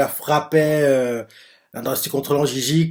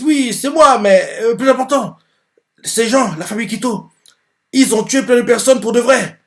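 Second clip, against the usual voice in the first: much higher, tearful and urgent; upset teenager; 9 semitones higher, 5 dB louder than usual. Acted. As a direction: plead with the police, near tears. Teen answers police, upset.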